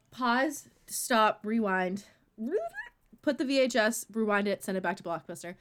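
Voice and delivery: mock shock. Mock commands halting the story in shock.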